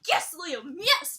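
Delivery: cheering Liam for figuring it out. Retold or imitated. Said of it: "I was like".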